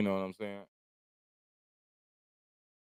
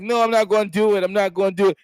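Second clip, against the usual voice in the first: high-pitched imitation sobbing; mock crying; 9 semitones higher, 4 dB louder than usual. Mocking a tearful man backing down, fake crying. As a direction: whine it like a tearful man, hammed up. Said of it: "and he's crying like".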